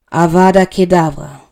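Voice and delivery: loud, cold incantation; loud spell; killing curse. A narrator's reading. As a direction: cast the curse with force.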